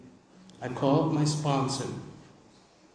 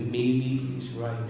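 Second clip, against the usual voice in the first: slow, doubtful musing; much slower than usual. Retold or imitated. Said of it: "I said".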